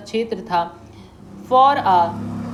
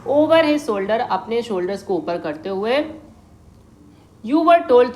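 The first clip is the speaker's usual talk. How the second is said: animated reading; 2 semitones higher, 3 dB louder than usual. Acted. Teacher reading Ausable's line to Fowler, animated. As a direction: lift the line with energy.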